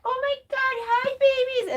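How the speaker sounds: put-on high, sing-song baby talk to pets; high doggy-greeting voice; greeting the dogs. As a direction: coo at the dogs coming home. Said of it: "We were like".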